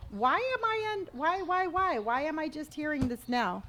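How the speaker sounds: high outraged why, repeated; can't believe nobody said it; incredulous. Real, not acted. Shocked by news about snakes.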